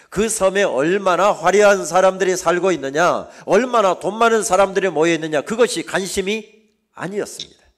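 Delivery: loud, high pulpit oratory; impassioned sermon shout; full-force preaching. Real, not acted. Preacher builds rhetorical questions at full force.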